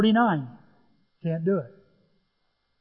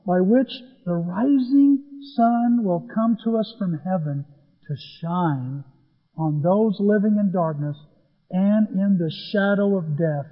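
measured, slow read of the verse; solemn scripture reading. Acted. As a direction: read it like holy words. Reads scripture aloud.

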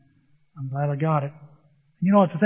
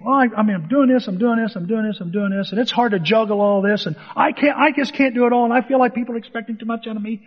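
retelling his own whining to a friend on the golf course; whiny complaint; 5 semitones higher than usual. Retold or imitated. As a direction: complain that life is too much, voice climbing.

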